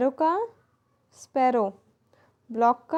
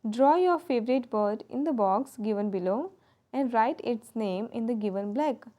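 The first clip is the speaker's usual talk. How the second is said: slow instruction read; much slower than usual. Shown as a demonstration. Teacher reading textbook instruction.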